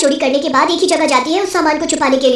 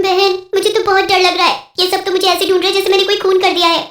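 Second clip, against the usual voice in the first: higher-pitched, mildly fearful voice; a touch of worry, pitched up; frightened; 5 semitones higher than usual. Acted. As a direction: confide your fear to a friend. Frightened witch confides in her friend.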